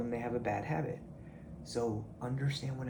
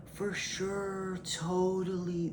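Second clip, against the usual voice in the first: mock placating agreement; 3 semitones higher, 3 dB quieter, much slower than usual. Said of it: "people in your life are gonna go".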